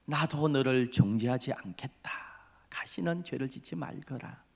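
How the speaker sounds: lightly voiced Jesus, reassuring and softening; gentle encouragement. Jesus gently forgiving the sinful woman, tender. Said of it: "그 격려의 말에".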